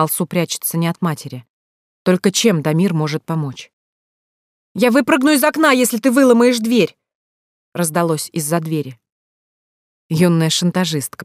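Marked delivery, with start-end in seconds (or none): 4.7-7.0 put-on high, loud teenage cry from behind a door; girl shouting through door. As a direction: yell the threat, pitched way up. Сестра кричит из-за двери. (высокий громкий крик девушки из-за двери)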